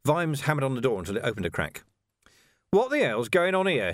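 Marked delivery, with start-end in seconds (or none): 2.7-3.9 loud, higher angry demand. A narrator's reading. Vimes demanding answers at the door, loud. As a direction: bark it through the crack. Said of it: "he demanded".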